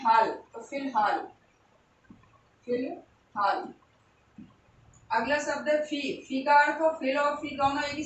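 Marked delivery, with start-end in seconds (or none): 0.0-1.3 slow dictation. Shown as a demonstration. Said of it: "teacher sounding out word". 2.7-3.7 syllable-by-syllable. Shown as a demonstration. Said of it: "teacher repeats word slowly".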